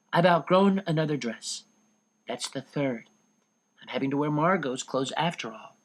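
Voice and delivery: a lightly voiced teenage girl reading her diary; Anne's diary voice. Anne reading her diary entry aloud, lightly voiced girl.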